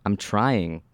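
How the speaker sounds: hissed. Acted. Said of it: "I hissed".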